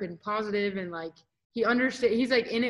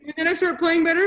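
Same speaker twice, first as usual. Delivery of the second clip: retold upset answer; 8 semitones higher, 8 dB louder than usual. Acting tearful self answering psych's prodding.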